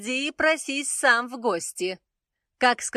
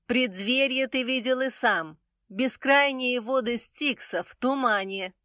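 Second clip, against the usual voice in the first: high, cold goddess voice; suddenly icy and distant; 9 semitones higher than usual. A narrator's reading. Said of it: "неожиданно холодно произнесла полупантера".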